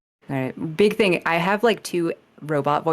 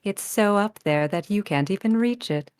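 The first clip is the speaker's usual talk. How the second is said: robot GLaDOS voice; 2 semitones higher than usual. Acted. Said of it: "wait, I have to use the voice".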